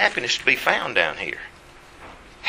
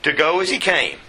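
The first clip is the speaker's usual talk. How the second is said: measured, raised reading voice; scripture reading; 3 semitones higher than usual. Acted. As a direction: read the verse aloud to the congregation. Reads scripture aloud.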